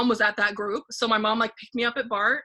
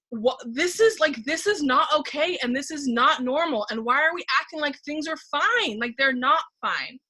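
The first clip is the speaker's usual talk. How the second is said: panicked inner voice; 4 semitones higher than usual. Retold or imitated. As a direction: replay the mounting panic of that moment. Retelling her panic on the train.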